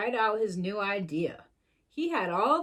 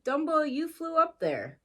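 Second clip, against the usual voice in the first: excited Timothy; 7 semitones higher than usual. A narrator's reading. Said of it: "cried Timothy".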